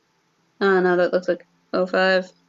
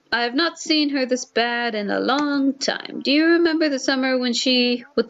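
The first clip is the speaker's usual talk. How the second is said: tearful mother; 4 semitones higher than usual. Acted. Mother voiced, crying.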